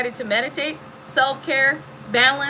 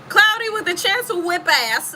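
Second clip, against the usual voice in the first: laughing through a joke forecast; giggling at her own joke; 8 semitones higher, 3 dB louder than usual. Real, not acted. Jokes and laughs.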